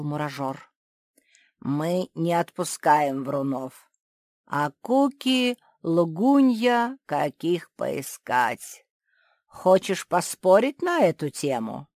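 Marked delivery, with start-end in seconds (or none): 1.6-11.9 a hint of a stern ant judge, louder; lightly voiced stern judge. The ant judge refuses to release liars, lightly stern. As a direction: lay down the rule like a strict judge.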